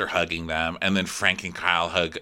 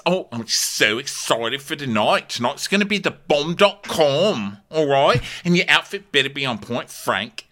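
a touch higher, perky showman; mock Kyle; 4 semitones higher than usual. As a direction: hype the guests up, lightly hammed. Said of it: "Kyle is telling the guests".

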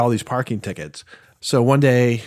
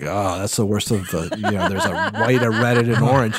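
laughing. Retold or imitated. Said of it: "And he's like".

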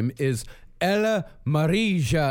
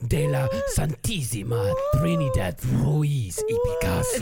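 put-on angry Spanish accent. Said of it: "is your Spanish accent always that angry".

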